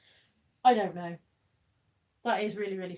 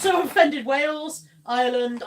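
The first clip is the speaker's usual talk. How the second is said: mock offended; 5 semitones higher, 11 dB louder, slower than usual. Jokingly apologising to the nations.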